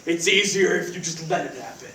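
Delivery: low hushed brooding killer voice; assassin's voice. Acted. The speaker tells roommate Cody about the call in his assassin voice, low and hushed. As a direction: mutter it like a grim movie assassin. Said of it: "it's my assassin's voice".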